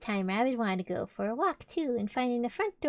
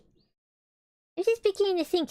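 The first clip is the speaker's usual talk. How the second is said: high, louder bear voice, slowed; worried Pooh; 9 semitones higher, 5 dB louder than usual. Acted. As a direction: voice Pooh pitched up and hesitant. Stuck Pooh worries in the story.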